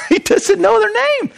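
amused laughing retake. Real, not acted. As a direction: break into a laugh on "He doesn't know their name". Repeats line laughing, much higher.

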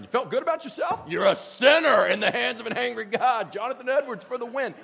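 a light send-up of a hellfire preacher; Tom Richter sermon. Retold or imitated. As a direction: hammer the sinners in mock warning. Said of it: "a classic Tom Richter sermon".

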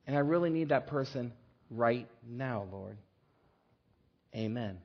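tearful, pleading prayer; praying. Acted. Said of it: "Then she prayed".

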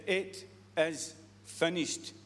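slow, quiet 'It is finished'; slow reading. Shown as a demonstration. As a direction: let it land, slowly and softly. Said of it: "Let me say that again".

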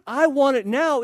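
mock-demand it like a spoiled kid; loud sulky want; whiny demand. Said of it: "Say that with a whiny voice".

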